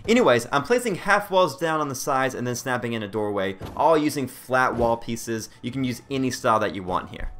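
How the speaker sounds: whistling on the s sounds. Real, not acted. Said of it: "I keep whistling when I say certain words".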